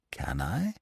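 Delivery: unvoiced, strained whisper; desperate whisper. A narrator's reading. Weak Lupin doubting he can rise, strained whisper. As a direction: push the words out with failing strength. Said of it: "making a desperate effort".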